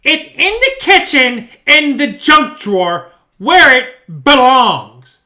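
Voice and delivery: slow, drawn-out disembodied voice; ghostly voice. Retold or imitated. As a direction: intone it slowly like an unseen presence. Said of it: "then I hear this".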